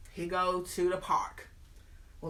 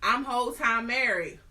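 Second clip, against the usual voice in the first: higher, offhand reveal; mock confession; 4 semitones higher, 3 dB louder than usual. Lady in red admitting she's married, lightly voiced. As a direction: toss it off casually. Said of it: "she go".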